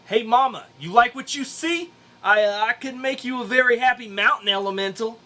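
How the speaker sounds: loud, high hammed-up come-on; sleazy pickup line, overdone; cheesy flirting. Hero hitting on the mountain, hammy and loud.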